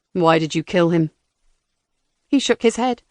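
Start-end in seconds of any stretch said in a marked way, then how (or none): 0.1-1.1 low, loud disguised robot voice; cold robotic interrogator. Acted.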